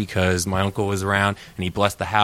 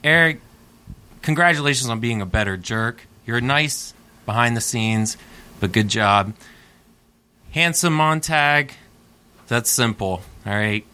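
wrestling promo. Acted. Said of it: "he's cutting a promo now".

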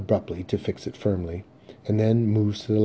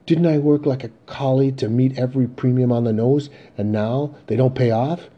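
loud, higher-pitched protest; indignant outburst; 5 semitones higher, 7 dB louder than usual. Acted. Father to Ben about the insurance premiums, indignant. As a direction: protest the injustice in a raised voice.

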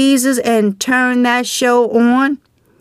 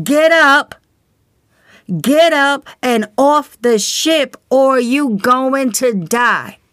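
urgent shout. Pretend. Preacher to sleeping listener on sinking ship, urgent yell. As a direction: shout them awake, the ship is going down.

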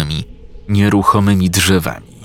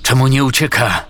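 rising panicked cry, higher at the end; alarmed shout; 4 semitones higher, faster than usual. Acted. Lestko shouting about the warrior who won't flee, alarmed. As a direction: call out in disbelief. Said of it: "krzyknął Lestko".

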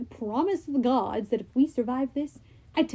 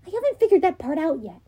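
Annabeth voice; 5 semitones higher, faster than usual. Acted.

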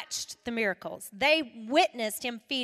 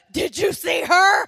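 put-on amazed child; 5 semitones higher, 12 dB louder than usual. Child amazed at panicking friend.

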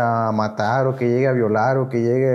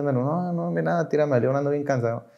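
weary brush-off; 2 semitones higher, 4 dB quieter than usual. Retold or imitated. Husband putting off his wife, tired retold brush-off. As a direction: wave someone off under your voice.

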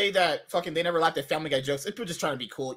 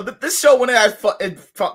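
ordinary talk

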